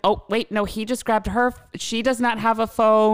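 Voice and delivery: a nosy neighbour reporting live to the dispatcher; gossipy live report. Retold or imitated. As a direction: narrate the fight like a thrilled spy.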